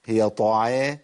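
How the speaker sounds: usual speaking voice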